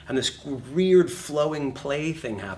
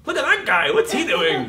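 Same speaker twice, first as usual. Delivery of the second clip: mimicking McConaughey; 6 semitones higher, 8 dB louder than usual. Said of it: "He's like".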